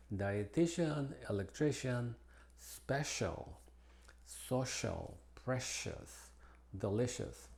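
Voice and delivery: C said as SH in dietitian, special, delicious; soft SH in place of the C; English SH sound. Shown as a demonstration. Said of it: "se pronuncia como S H". (C como SH)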